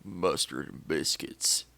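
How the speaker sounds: slow, low Southern hick drawl on mustard and biscuits; hick accent. Shown as a demonstration. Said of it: "so in a hick accent".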